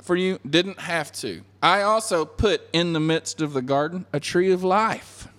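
acted earnest remonstrance; impassioned appeal. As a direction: pile up each point with rising fervour. Voices God pleading with Adam.

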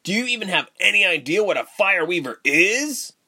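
high-pitched, incredulous question; stunned outburst; shocked. A narrator's reading. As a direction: ask in disbelief, voice jumping up. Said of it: "he said in shock".

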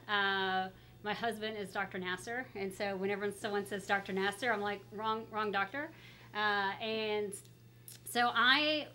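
muffled behind a mask; talking through a mask; through a face mask. Real, not acted. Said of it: "we'll talk through the mask".

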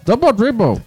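loud, high robotic game announcer; synthesized game voice. Retold or imitated. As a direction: bark the title like an old console voice. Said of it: "tem uma voz sintetizada que fala".

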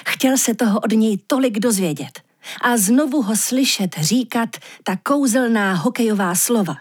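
usual speaking voice

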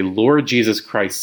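slow and drawn out; slow prayer on the inhale. Shown as a demonstration. Teacher repeating the inhale line slowly. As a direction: breathe in through the words. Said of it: "we breathe in because we say".

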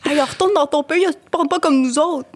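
high-pitched mock Quebec schoolkid; high, teasing imitation of schoolkids; kids like little men. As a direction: imitate a kindergartner talking like a little gentleman. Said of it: "ils parlaient comme des petits messieurs".

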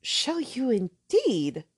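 slow, earnest and grave; a hint of solemn young girl; very seriously. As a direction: take his claim seriously. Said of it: "said Catherine very seriously".

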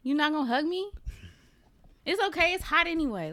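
high playful whine that shrugs it off; mock pleading. Teasing her co-host over the refused hug, high mock pout.

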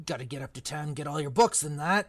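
a hint of Hagrid, rueful; lightly voiced gamekeeper regretting his temper. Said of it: "wrong voice for Hagrid".

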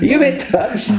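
high, mocking repeat of the question; squeaky mock Cockney asking if he's touched; geezer voice.

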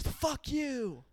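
high-pitched imitation of an angry stranger; yelled in pitch only, not volume; mock yell. Retelling the lady yelling at mom's car, high mock yell. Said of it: "this lady yells".

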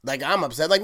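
ordinary delivery

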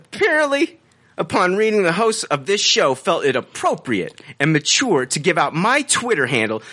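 high-pitched opening word, then mannered read-out; exaggerated reading tone. Host rereads the review after co-host's urging, exaggerated affected tone. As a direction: lay the affected inflection on thicker. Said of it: "go a little more with it".

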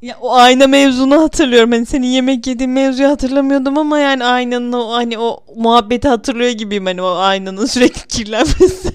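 loud, breathless after a laughing fit; after laughing hard. Real, not acted.

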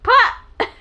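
laughing and loud, echoing the word; laughing mock echo; laughing repeat. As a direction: toss the word back through a laugh. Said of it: "I heard pop".

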